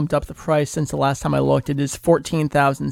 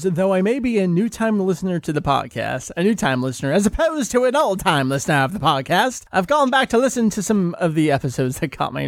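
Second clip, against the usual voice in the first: put-on old-time voice; 2 semitones higher than usual. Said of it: "I just like old-time voices".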